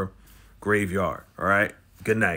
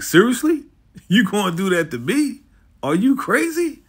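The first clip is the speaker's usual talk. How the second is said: outraged Claude; 8 semitones higher than usual. Retold or imitated. Claude shrieks at the girl who slapped her. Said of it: "she changed into a whole different person".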